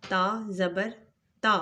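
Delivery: تا زبر تا with the voice going up on تا; rising tune. Shown as a demonstration. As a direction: let the voice climb on the final تا. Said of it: "ہماری آواز اوپر کی طرف جائے گی".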